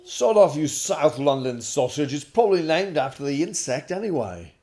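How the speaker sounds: loud, high-pitched British insult, delivered with gusto; Gray Man impression. Dad performing a book line for viewers, Gray Man impression. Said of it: "that was my gray man impression".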